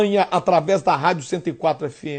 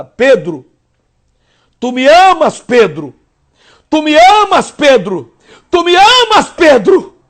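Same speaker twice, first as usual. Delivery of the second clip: each tu me amas higher and louder; impassioned rising call of Jesus; Jesus asking again; 6 semitones higher, 6 dB louder than usual. Acted. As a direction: build the plea each time. Jesus asks third time, escalating.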